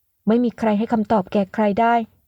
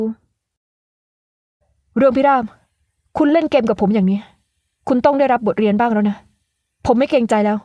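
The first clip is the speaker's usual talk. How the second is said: louder, drawn-out name then threat; acted anger; 3 dB louder, much slower than usual. Young man threatening the woman who played games, louder. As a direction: warn her she'll be taught a lesson.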